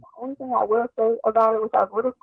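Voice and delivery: muffled. Real, not acted. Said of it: "You sound muffled".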